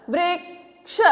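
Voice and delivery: a quiet, quick वृक्ष; soft normal pace. Shown as a demonstration. Teacher repeating वृक्ष softly after the slow version. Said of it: "अब इससे क्या शब्द बनाए मैंने?".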